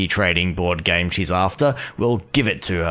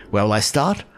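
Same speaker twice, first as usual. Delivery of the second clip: lightly voiced eager girl boss; rally the crowd like a giddy CEO; grand, bubbly sales pitch to a crowd; Qingque; 6 semitones higher than usual.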